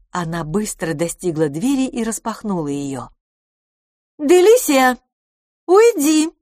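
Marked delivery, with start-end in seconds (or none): 4.2-6.3 high, loud shout through a door; calling out irritably. A narrator's reading. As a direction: call out loudly to shoo her away. Calls from behind the door. (раздражённый громкий окрик)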